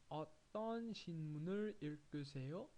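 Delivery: each syllable slow and clear, 어떤 신문을 읽으세요 spelled out; slow careful reading. Shown as a demonstration. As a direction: read it slowly for learners. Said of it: "And here we have".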